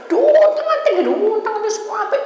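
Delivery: very high, loud squeal; shrieking re-enactment. Retold or imitated. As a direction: act out being whirled around, squealing high and loud. Re-enacts being whirled by the devil. (jeritan melengking saat diputar-putar)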